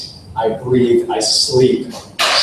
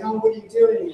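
bright, much higher polite question; curious friend. Retold or imitated. People at a party asking about the speaker's work, lightly mocking. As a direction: ask like a vaguely interested acquaintance. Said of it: "they're saying".

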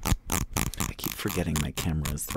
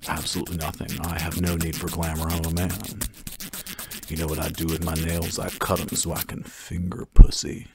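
macho man voice; 8 dB louder than usual. Pretend. Mock macho man bit.

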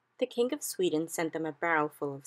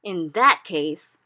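slow, much louder giant bellow; a flesh-eating giant bellowing at the BFG; 12 dB louder, much slower than usual. A narrator's reading. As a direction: roar it slowly like a brute.

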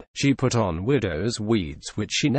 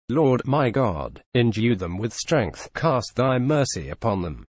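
solemn prayer. A narrator's reading. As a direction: pronounce it like a blessing. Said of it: "he pronounced".

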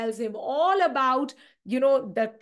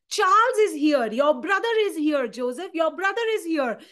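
a servant calling out the arrival, raised and high; loud announcement; 5 semitones higher, 3 dB louder than usual. Acted. Servant announcing Charles to Joseph, raised call. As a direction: announce it to the room.

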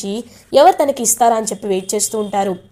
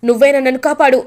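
begging; 3 semitones higher than usual. Acted. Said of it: "బ్రతిమలాడుతూ ఉంటాడు శైలేంద్ర".

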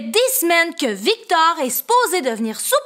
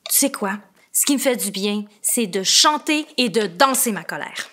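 soft confiding; 8 semitones lower, 5 dB quieter, much faster than usual. Acted. Confiding a calming trick.

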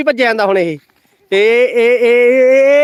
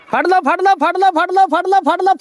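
excited urging; 7 semitones higher than usual. Real, not acted. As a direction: cheer them on to grab him. Urging kids to catch him. (ਜੋਸ਼ ਨਾਲ ਉਕਸਾਉਣਾ)

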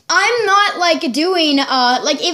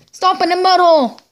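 Stone Cold catchphrase; 3 semitones higher, 4 dB louder than usual. Retold or imitated. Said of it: "That's what he would say".

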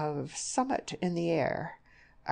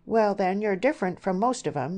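loud, higher-pitched retort; bursting out; 5 semitones higher, 5 dB louder than usual. A narrator's reading. Mother breaking in on the suitor's declaration, bursting out. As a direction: burst in with a blunt objection. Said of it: "Missus Arden burst out".

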